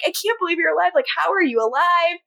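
lightly acted emotional questioning; retold emotional disbelief. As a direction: imitate someone amazed at a loved one's survival. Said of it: "she's very, very emotional".

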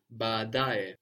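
"baadaye" with both a's sounded and da accented; stress on DA. Shown as a demonstration. Teacher repeating the word for a learner, "baadaye" stressed on da. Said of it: "the da is still accented".

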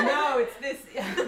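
lightly put-on bard voice; default bard voice. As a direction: giggly start of a bard voice. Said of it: "your default bard voice".

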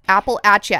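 Appalachia said as "apple-atch-uh", short a and ch; local pronunciation. Shown as a demonstration. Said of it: "the way that locals say it".

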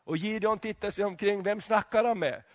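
usual speaking voice

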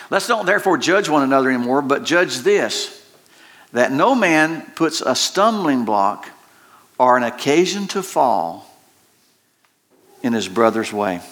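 solemn scripture read. Acted. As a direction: read the verse weighing each phrase. Reading scripture.

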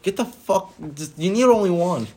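mock annoyed. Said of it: "I was like".

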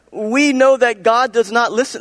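high-pitched, fervent preaching; preaching to Pharisees. Acted. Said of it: "he starts preaching to the Pharisees".

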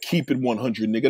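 mock an older man's dated slang, dropped low and quiet; corny mocking quote. Host mocking a middle-aged caller's slang, low corny imitation. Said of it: "Who the fuck talks like that?".

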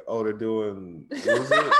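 imitating a friend's text; mocking friend. Mocking Denise's message.

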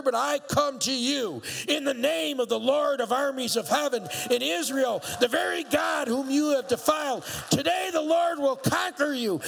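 a bold shout of defiance. Acted. David answering Goliath, bold defiant shout. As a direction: shout it back at the giant, full of faith. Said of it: "David shouted in reply".

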